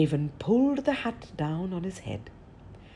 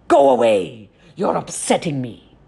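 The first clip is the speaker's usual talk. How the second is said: irritated giant; 6 dB louder than usual. Acted.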